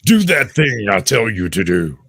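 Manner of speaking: lightly voiced bossy prison warden; Arkham warden. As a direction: bark orders like a jailer. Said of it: "now you sound like the warden at Arkham".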